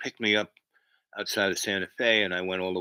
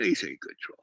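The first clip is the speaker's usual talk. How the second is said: mock cute voice; 4 semitones lower, 3 dB quieter than usual. Streamer cooing at a chat troll, mock cute. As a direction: coo like praising a pet.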